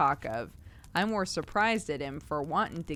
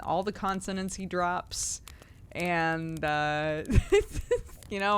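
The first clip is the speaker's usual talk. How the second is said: whispering; slower than usual. Real, not acted. Giggly aside at end.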